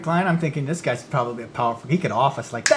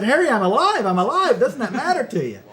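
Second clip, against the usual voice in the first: laughing plea; 8 semitones higher, 4 dB louder than usual. Retold or imitated. Actor pleading with angry producer.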